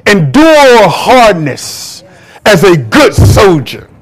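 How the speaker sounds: drawn-out, solemn verse reading; slow scripture quote. Acted. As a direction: stretch each word like a proclamation. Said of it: "Second Timothy says".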